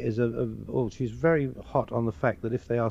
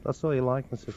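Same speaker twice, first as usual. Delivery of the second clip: Liverpool accent. Shown as a demonstration. Comedian repeating the Liverpool man's odd phrase, Scouse accent. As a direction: demonstrate Scouse. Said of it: "They talk like that".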